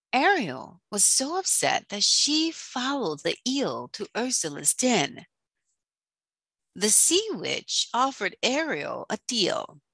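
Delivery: dramatic storyteller with punched key words; children's story reading. A narrator's reading. Teacher reading The Little Mermaid to children, dramatic storytelling. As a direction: read it aloud to children, theatrically.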